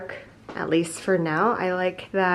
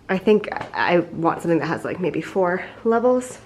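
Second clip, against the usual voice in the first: breathless; puffing between words; out of breath; 5 dB louder than usual. Real, not acted. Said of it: "Sorry, I'm so out of breath".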